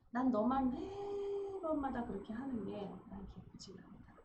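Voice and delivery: God's voice. Retold or imitated. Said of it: "하나님이".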